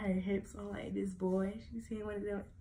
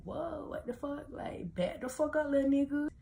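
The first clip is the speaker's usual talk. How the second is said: retold telling-off; 8 semitones higher than usual. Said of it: "and I'm like".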